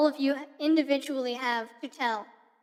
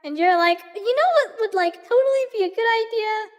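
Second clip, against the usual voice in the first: put-on bubbly valley girl, stretching every totally; 3 semitones higher than usual. Shown as a demonstration. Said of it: "the Valley Girl filter".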